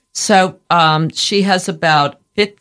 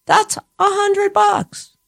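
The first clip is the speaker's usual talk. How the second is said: emphatic price; slower than usual. Real, not acted.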